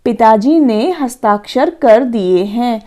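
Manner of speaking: slow, measured classroom reading; example sentence. Shown as a demonstration. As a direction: read the model sentence out slowly. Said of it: "ऐसे ही आगे है". (उदाहरण वाक्य धीरे-धीरे पढ़ते हुए)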